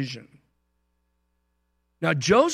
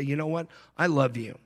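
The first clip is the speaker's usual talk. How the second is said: tender I love you. Shown as a demonstration. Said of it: "look at that person and say".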